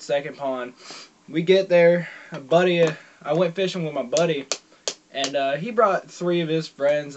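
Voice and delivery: talking with a lip of dip in; chewing tobacco. Real, not acted. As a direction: mouth full of chewing tobacco. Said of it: "So, I'm gonna pack a lip of this".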